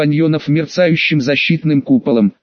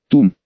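dull cannon boom; 5 semitones lower than usual. Acted. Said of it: "глухо отозвалась одна из пушек".

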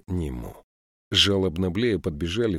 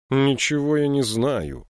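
put-on old woman, higher, louder and slow, stubborn; firm denial; 7 semitones higher, 5 dB louder than usual. A narrator's reading. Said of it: "решительно заявила она".

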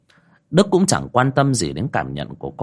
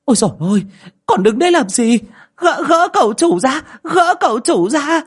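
very high, loud panicked shouting at the servants; old lady shrieking at the servants to pull her son free; frantic cry; 6 dB louder than usual. Acted. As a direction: yell orders in a panic. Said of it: "vội vàng kêu lên".

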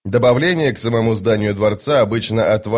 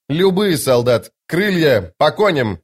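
roaring rallying speech; 5 semitones higher, slower than usual. Acted. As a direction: bark battle orders to the troop. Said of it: "Итковиан ответил". (громкий командный призыв)

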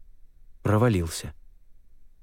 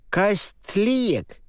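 put-on questioning old shaman; 12 semitones higher than usual. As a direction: ask it in a strange old voice. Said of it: "с вопросительной интонацией".

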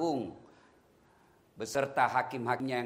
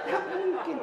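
much higher, laughing Nggak mungkin; squeaky mock denial; 3 dB louder than usual. Preacher teasing newlyweds, high squeaky laugh. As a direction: pitch Nggak right up, amused. Repeats it in a new voice.

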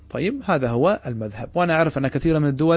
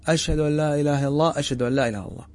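mildly raised recitation, calling out to people; raised voice demo; much faster than usual. Shown as a demonstration. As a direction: lift the voice a little as if calling others. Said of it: "ثم ترفع صوتك وتسمع الناس".

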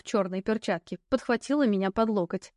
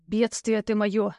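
slow, exasperated groaning line; slower than usual. Acted. Knight gives up on the injured heroine, groaning. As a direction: groan it out, at wits' end. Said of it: "вдруг простонал рыцарь".

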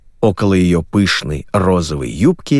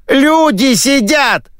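much higher, very slow furious cry; hysterical outburst; 3 dB louder, much slower than usual. Acted. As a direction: explode in outrage. Host blowing up.

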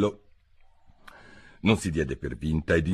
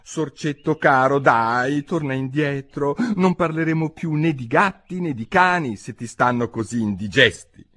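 gently calling; 6 semitones higher than usual. A narrator's reading. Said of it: "lo chiamò con dolcezza".

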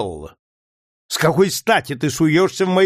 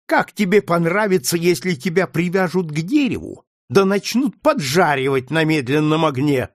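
higher, louder cruel threat; menacing threat; 6 semitones higher, 4 dB louder than usual. A narrator's reading. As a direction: frighten him with torture. Legree threatening torture.

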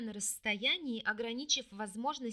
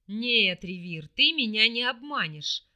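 louder, displeased hissing warning; 8 dB louder than usual. A narrator's reading. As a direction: hiss it out, displeased. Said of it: "прошипел недовольно демонолог".

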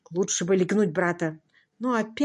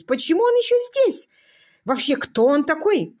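much higher, louder cry; indignant outcry; 8 semitones higher, 4 dB louder than usual. Acted. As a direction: burst out in outrage. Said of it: "вскричала леди Констанс". (возмущённо вскричав)

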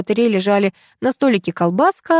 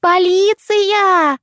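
granny howling mid-fight; wailing; 11 semitones higher, much slower than usual. A narrator's reading. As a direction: howl it, then shriek for police. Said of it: "вопила первая".

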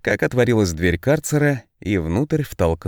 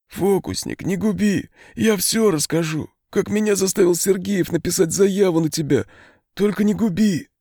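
high, desperate pleading; frantic begging; 10 semitones higher than usual. A narrator's reading. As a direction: beg for mercy on his knees. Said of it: "почти помешанным". (умоляюще, в панике)

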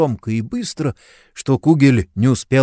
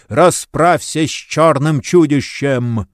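крик; 5 semitones higher, 4 dB louder, slower than usual. A narrator's reading. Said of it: "заорал Кугель".

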